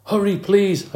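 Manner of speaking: high squeaky plea; a small hamster begging in a high squeak. Acted. Tired hamster hanging by one paw begs rescuers, squeaking high. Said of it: "I squeaked".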